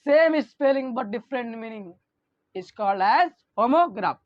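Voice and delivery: very slow, word by word for notes; slow dictation. Shown as a demonstration. Teacher dictating slowly to the class for notes. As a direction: read it out slowly so students can write. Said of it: "teacher dictates the definition".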